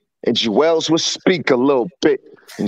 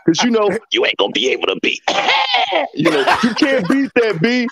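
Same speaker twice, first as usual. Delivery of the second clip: higher and faster, hyped up like a pep talk to a rapper; hyped call to Cam; 6 semitones higher than usual. Retold or imitated. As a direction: talk fast and high, pumping him up. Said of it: "I should have hit him up and be like".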